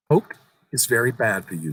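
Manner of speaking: lightly voiced young boy. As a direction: tell it like an eager child sharing a secret. Boy lectures.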